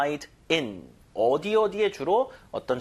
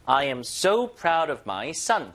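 "so" and "son" both stressed and drawn out; stress on both words; much slower than usual. Shown as a demonstration. Teacher models before learners repeat, stress on both sides. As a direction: punch "so", then land firmly on "son". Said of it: "강세 양쪽 주시고".

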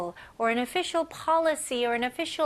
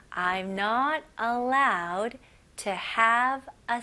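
slow model reading; much slower than usual. Shown as a demonstration. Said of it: "첫 번째 문장입니다".

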